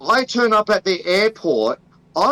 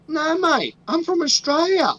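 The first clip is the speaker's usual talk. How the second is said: higher, exaggerated Aussie reply; Australian accent; 9 semitones higher than usual. Traveller insists to customs officer, high hammed-up Australian accent. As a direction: protest in a thick Australian accent. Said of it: "I'd be like".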